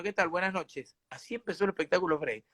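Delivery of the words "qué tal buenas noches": understated rattled hello; mild nervous greeting. Retold or imitated. Shaken Freddy facing the audience, mild nervous greeting. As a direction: get through the greeting softly, a touch nervous. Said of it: "quiero decirle que estoy muy nervioso".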